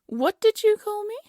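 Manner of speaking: offended royal indignation; indignant. Acted. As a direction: bristle at the insult. Queen offended by servant's word.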